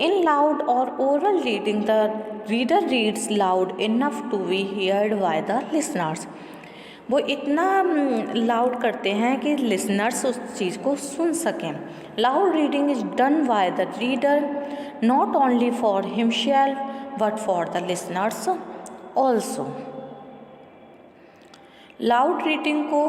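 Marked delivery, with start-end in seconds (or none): 0.1-6.3 measured, deliberate textbook read-aloud; steady classroom reading voice. Acted. Reads textbook passage aloud. 12.2-19.7 measured, deliberate textbook read-aloud; steady classroom reading voice. Acted. Reads textbook passage aloud.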